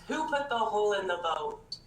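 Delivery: a lightly voiced blamer, pointing fingers; accusing blamer. Sinking-boat story, the blamer turns on everyone, lightly accusing voice. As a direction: demand to know who did it, mock-accusing. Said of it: "the blamer looks at everyone and goes".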